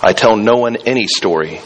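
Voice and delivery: steady storytelling read with figures lightly voiced; story read aloud. A narrator's reading. Pastor reading a children's novel to his congregation, storytelling voice.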